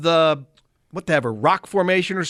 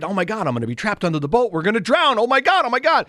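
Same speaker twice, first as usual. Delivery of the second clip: higher, mock panic about drowning; imitating panicked wife; 4 semitones higher than usual. Husband imitating his panicking wife, mock fear. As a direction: replay her fear of being trapped, half-joking. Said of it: "'cause she's worried".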